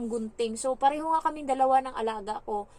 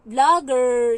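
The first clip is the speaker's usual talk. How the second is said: loud sudden call; a stranger spotting a YouTuber; called-out recognition; 13 dB louder than usual. Retold or imitated. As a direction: shout it across the street on recognizing her. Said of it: "nagsabi siya".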